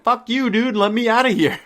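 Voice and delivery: high, loud fed-up yell; imagined yell at the salesman holding his key, high and loud; pretend blow-up. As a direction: tell him off and demand to leave.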